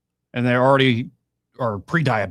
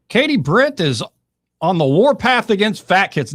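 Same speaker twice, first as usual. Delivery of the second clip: loud, higher, hammed-up headline announcement; mock tabloid headline; 8 semitones higher, 7 dB louder than usual. Host mockingly voicing a headline about Katie Britt, loud and hammed-up. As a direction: blare it like a trashy headline. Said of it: "that's how I would say it".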